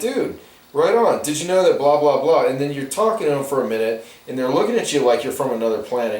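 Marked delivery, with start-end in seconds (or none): 0.0-2.4 bounding up to a fellow fan; eager fan. Retold or imitated. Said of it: "you're like".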